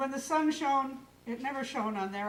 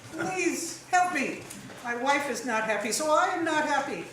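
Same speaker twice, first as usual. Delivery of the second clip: pleading; 4 semitones higher, 7 dB louder than usual. A narrator's reading. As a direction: beg the old man for help. Minglo begs wise man.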